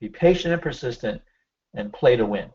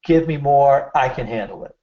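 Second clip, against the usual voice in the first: "Give me more" said firmly, with conviction; with passion. Shown as a demonstration. Demo of the good way to say it, with passion. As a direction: say it like you mean it. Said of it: "say it with some passion".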